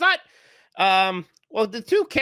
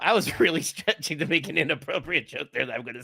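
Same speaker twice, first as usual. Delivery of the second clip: laughing. Real, not acted. Cracking up at own crude joke.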